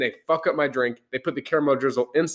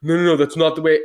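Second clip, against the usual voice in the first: adamant mock barista; 3 semitones higher, 5 dB louder than usual. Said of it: "he was so adamant".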